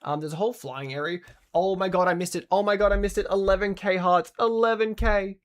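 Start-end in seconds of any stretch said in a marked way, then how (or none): 1.5-3.3 loud, high burst of real excitement; gasping loud oh my god; excited outburst. Real, not acted. Missed a big streamer gift. 3.3-5.4 loud, high, thrilled announcement; cheering the count; excited. Real, not acted. Reacting to a streamer milestone.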